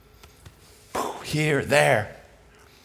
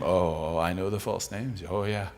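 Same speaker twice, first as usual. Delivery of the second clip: retold rueful admission; 10 semitones lower, 7 dB quieter than usual.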